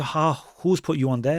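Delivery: ordinary talk, nothing marked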